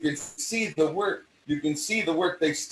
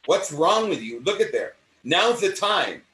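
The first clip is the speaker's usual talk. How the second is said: pleading in a higher, swooping voice; acting out an insistent plea; urgent persuasion; 5 semitones higher than usual. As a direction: press them to face it. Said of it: "you're trying to convince them".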